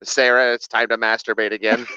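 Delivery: low-pitched, matter-of-fact helper; guide's instructing voice. Acted. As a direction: instruct like a detached remote assistant. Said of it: "of course I'm talking like that".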